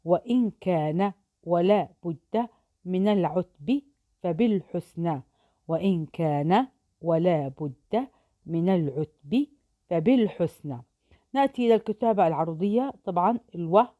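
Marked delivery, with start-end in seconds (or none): 0.0-10.8 poem recital. Shown as a demonstration. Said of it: "نأتي الآن إلى البيت التالي".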